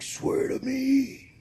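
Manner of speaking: very slow vigilante impression; Batman. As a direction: draw it out like a menacing superhero. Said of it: "Mister Batman".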